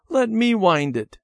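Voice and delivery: put-on high, childlike plea; begging. A narrator's reading. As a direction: beg eagerly for a turn. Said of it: "Debbie begged".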